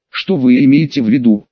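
plain reading voice

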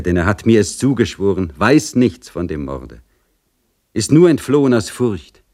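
lightly voiced mother, deliberate and convinced; insistent serf mother. Mother demands the general believe her and free Iwan, insistent. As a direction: press each point with firm conviction.

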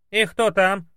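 loud, high chattering maid; high loud housemaid over the intercom; rattling maid. Acted. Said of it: "затараторила горничная Василиса".

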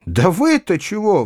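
a touch of angry outcry; heated exclamation. A narrator's reading. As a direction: demand it hotly. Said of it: "в запальчивости закричал я".

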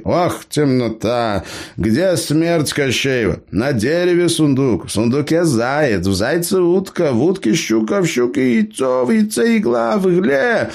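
put-on high-pitched cheeky old gnome. A narrator's reading. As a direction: play the crafty gnome, pitched well up. Gnome tells the tale.

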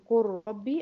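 قل ربي as one "qur-rabbi"; قل ربي with a long rolled R, no L; lam merged into ra. Shown as a demonstration. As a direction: swallow the L of قل into a doubled R. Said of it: "أما تضغم دي في دي".

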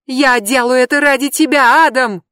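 high, loud desperate yell. Acted. Brandi yells at Adam, high desperate yell. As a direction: cry it out after him. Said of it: "завопила Бренди".

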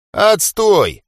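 high, loud dismissive scoff; a snorted scornful verdict. A narrator's reading. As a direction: sneer at the weak team. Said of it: "фыркнул Джонни".

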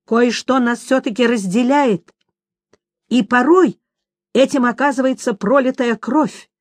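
a hint of a hard interrogation; mildly stern demand. A narrator's reading. Witcher demanding answer.

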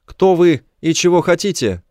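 high alien challenge; high melodic alien voice; melodic Kimbrian voice. A narrator's reading. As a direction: question the stranger in a high, lilting creature voice. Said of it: "мелодичный кимбрианский голос ответил".

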